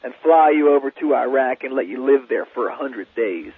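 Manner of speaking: spoken lyrics in measured phrases; lyric recitation. Real, not acted. Songwriter reads his lyrics to a radio host, reciting. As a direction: recite song lyrics line by line, with pauses. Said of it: "The next line".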